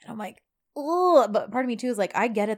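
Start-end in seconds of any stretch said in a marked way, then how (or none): 0.8-1.3 loud, raised groan of reaction; reacting groan. Part of me reacting to John, groaning. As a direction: let out a pitched-up "ugh". Acting out own reaction to scene.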